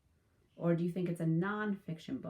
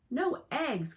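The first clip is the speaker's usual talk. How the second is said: dismayed cry; 8 semitones higher, 5 dB louder than usual. Acted. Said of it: "cried Farmer Brown".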